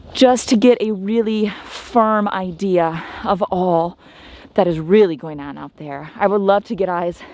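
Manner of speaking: shallow breathing while talking; winded from walking. Real, not acted. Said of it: "I'm out of breath".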